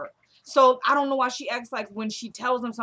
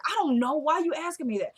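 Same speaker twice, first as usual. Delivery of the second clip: higher-pitched, exasperated imitation; defensive retold protest; 6 semitones higher than usual. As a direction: act out dodging an accusing question. Retold defensive answer when questioned.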